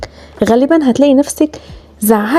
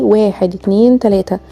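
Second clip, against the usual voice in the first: drawn-out, measured counting; slow count. Shown as a demonstration. Teacher demonstrates breathing out to mothers, slow count. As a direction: count out a long exhale slowly. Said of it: "وتخرجي".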